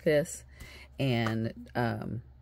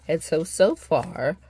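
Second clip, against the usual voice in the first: yawning; 4 semitones higher, 8 dB louder, slower than usual. Real, not acted. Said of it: "I'm just yawning and carrying on".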